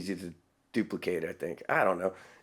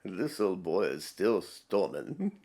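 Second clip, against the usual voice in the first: slow, softer mock British voice; lightly put-on British accent; imitated British accent; 3 semitones lower, 5 dB quieter, slower than usual. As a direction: mimic the British narrator slowly and quietly. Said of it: "I'm loving the British voice".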